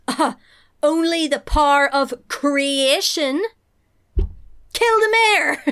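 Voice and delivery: drawn-out villainous line rising to a yelled order; grand, loud evil overlord erupting; Dark Lord. Acted. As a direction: boom it like an outraged dark lord. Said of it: "And the Dark Lord goes".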